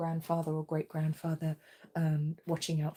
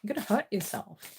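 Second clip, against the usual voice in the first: exasperated; 4 semitones higher, 3 dB louder than usual. Retold or imitated. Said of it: "And I'm like".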